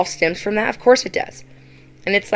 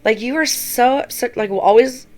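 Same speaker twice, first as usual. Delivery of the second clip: exasperated; 4 semitones higher than usual. Retold or imitated. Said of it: "I was so mad at her".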